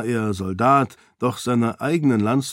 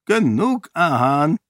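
higher, louder sharp order; commanding; 7 semitones higher, 4 dB louder than usual. A narrator's reading. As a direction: cut Ahan off with authority. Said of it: "befahl Roial". (Roial weist Ahan scharf zurecht, befehlend und lauter)

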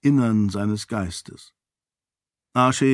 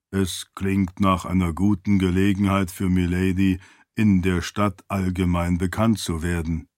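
lower, even-toned attendant voice; deferential servant; 4 semitones lower than usual. Acted. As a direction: advise your lady in a low, composed voice.

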